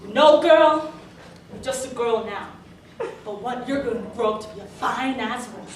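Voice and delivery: hammed-up creepy older man; lightly put-on voice of a street lech; leering catcaller. Grungy middle-aged man hitting on a girl, mock leering catcall. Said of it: "stares me down and says".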